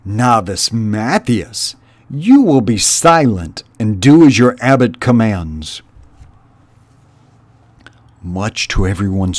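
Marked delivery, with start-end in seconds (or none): 0.0-5.8 a hint of a stern old sister; lightly voiced stern elder; stern, condescending. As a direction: talk down to the upstart. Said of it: "Her voice was stern and condescending".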